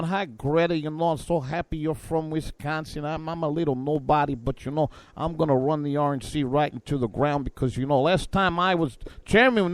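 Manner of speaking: lightly mocked party chairman, chatty and ingratiating; Reince Priebus. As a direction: do a meek little official chatting to a TV host. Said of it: "Reince Priebus, you know Reince, he's always on".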